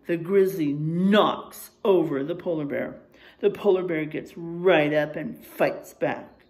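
put-on lively storybook reading for kids; reading to children. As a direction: read the bear facts like a story to the class. Reads picture book to class.

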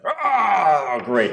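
high mock-delighted "Ah, great"; a king greeting with dry sarcasm; sarcastic king. King greeting the table with dry sarcasm. GM voices king's sarcastic remark.

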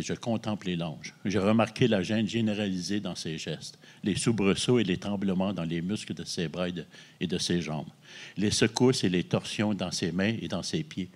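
steady, even novel reading voice; reading aloud. Acted. Author reading his own novel to the host, in a measured reading voice. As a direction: read the passage out like a storyteller.

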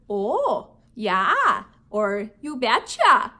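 Minnesota accent. Shown as a demonstration. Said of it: "I tend to have a Minnesota accent".

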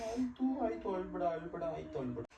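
soft, repeated hushing reassurance; gently calm someone who is crying; soothing. Real, not acted. Husband comforts his crying pregnant wife, soft soothing.

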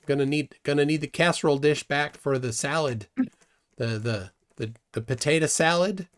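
hammed-up Minnesotan small talk; heavy Minnesotan accent. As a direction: attempt a broad Minnesotan accent. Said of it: "How about a heavy Minnesotan accent?".

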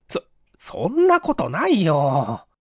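flustered stammer. Acted. Clerk stammers denial.

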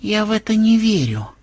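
high, level, controlled statement; composed, even denial; calm. Acted. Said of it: "спокойно заявила Мелисса".

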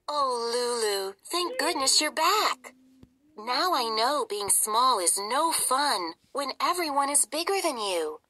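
high squeaky mouse voice; a little mouse pleading to be known; tiny mouse princess. Acted. Mouse Hildy relieved.

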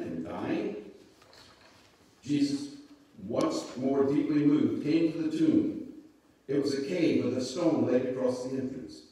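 measured Bible story narration; scripture reading. A narrator's reading. Pastor reading the raising of Lazarus to listeners, measured narration. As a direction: read it out clearly, phrase by phrase.

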